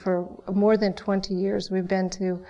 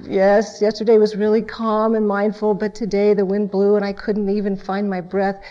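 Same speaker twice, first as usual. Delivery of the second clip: mock cheerful complaint; 4 dB louder than usual. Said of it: "how many of us can really say".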